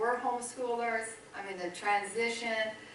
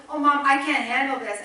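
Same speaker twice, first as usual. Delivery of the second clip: loud, higher mock-distressed plea; retold tearful complaint; 4 semitones higher, 9 dB louder than usual. Son begging his mom to rescue him, retold tearful complaint. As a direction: imitate an overwhelmed son pleading. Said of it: "he's crying again".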